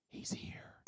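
hushed, voiceless whisper; awed whisper. Retold or imitated. Children at the temple spreading the news of Jesus, awed whisper.

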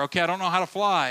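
fast, high, loud panicky rush; panicked pilot. Retold or imitated. Passenger pilot tells tower, fast and panicked. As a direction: blurt it like a lost pilot in panic.

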